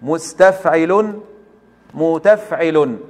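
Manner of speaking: each syllable drawn out slowly; slow, deliberate recitation of the prosodic feet; slow scansion. Shown as a demonstration. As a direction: spell out the metre feet slowly, like a teacher. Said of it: "ماذا فعلنا؟".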